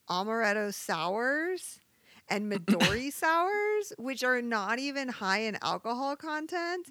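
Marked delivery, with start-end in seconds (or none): 0.1-3.9 stretched out, slow and exasperated; fed-up slow listing of drinks; exasperated drawl. Real, not acted. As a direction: drag the drink names out in disbelief. Exasperated about popular drinks.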